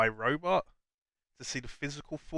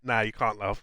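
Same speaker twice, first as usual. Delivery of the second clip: Cockney accent; 2 semitones lower than usual. Shown as a demonstration. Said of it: "not in a Cockney accent".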